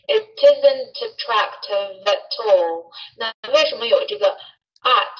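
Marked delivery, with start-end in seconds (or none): 0.1-2.9 "it isn't attractive at all" slow, each word running into the next; again, slow and linked; slow linked repeat. Shown as a demonstration. Teacher repeats the phrase for the class, slowly. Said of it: "我们再来一遍".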